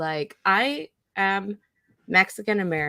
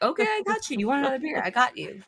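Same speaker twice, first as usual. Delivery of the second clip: put-on high, humoring voice for a drunk uncle; mock soothing tone to a drunk relative; 5 semitones higher, much faster than usual. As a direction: humor him like a sweet helper.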